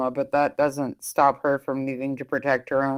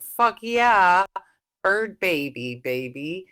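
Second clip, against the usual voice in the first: put-on excited kid; 4 semitones higher, slower than usual. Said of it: "David would be like".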